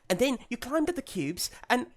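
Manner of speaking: put-on high, eager British child voice; a little British girl gushing. Little sister gushing to Skipper in a high British child voice. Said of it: "I gotta do a child British".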